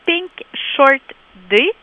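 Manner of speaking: Pink Shirt Day said with a light English accent. Real, not acted. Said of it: "excusez mon accent anglais".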